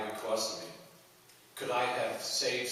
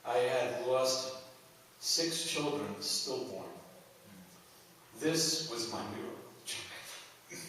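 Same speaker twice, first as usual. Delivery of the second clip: retelling her words slowly, each phrase apart; slow quoted words; 2 semitones higher, much slower than usual. Retold or imitated. Retelling a grieving mother's words to listeners, slow and deliberate. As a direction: let the woman's words land slowly. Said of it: "She said".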